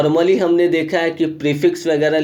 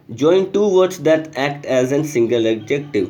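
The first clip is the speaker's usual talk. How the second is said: slow, deliberate read of a textbook line; reading the rule aloud; much slower than usual. Acted. Teacher reading the example sentence to students, slow and deliberate. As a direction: spell the sentence out for the class.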